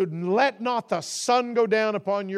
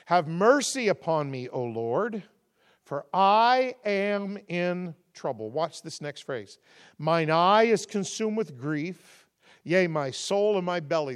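scripture reading. Shown as a demonstration. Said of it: "Psalm chapter thirty-one and verse nine".

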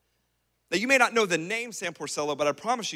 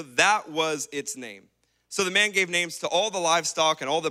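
scripture reading; 2 semitones lower than usual. Acted. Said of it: "and he says this".

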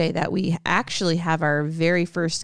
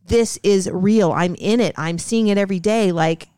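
frustrated plea; 4 dB louder than usual. Retold or imitated. Hospital worker pleading with conspiracy doubters, frustrated and emphatic. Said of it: "she was frustrated 'cause people kept".

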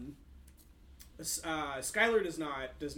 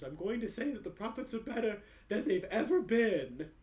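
a touch of higher, louder hypnotized recital; robotic, entranced answer; lightly voiced mind-controlled clerk; zoned out; 8 semitones higher, 5 dB louder than usual. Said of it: "zoned out, like, neutered version".

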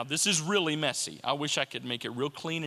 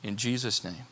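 measured congregational prayer with long pauses; earnest closing prayer, phrase by phrase; spoken prayer. Real, not acted.

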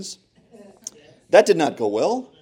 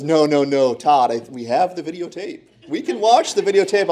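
gleeful mom voice; 4 semitones higher than usual. Retold or imitated. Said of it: "She goes".

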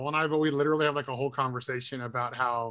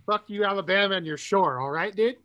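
hammed-up Cali dude telling them off; California surfer bro; 4 semitones higher than usual. Joking comeback at Alabama, California bro accent.

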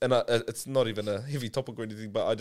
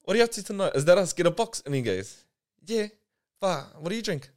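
mock Tūhoe dialect, no G sounds, raised voice; imitating Tūhoe dialect; 5 semitones higher than usual. Friend retelling his mate's funny dialect, lightly mocking. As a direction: play the mate talking English with no G. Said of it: "And he's going".

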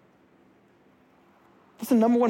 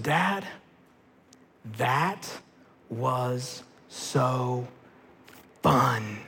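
hushed awe; 12 semitones lower, 7 dB quieter, much slower than usual. Retold or imitated. Daughter's hushed verdict after ride.

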